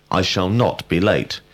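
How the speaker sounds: "not" stressed for emphasis. Shown as a demonstration. Teacher giving a negative example, stress on "not". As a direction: lean firmly on "not". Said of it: "we emphasize the word not".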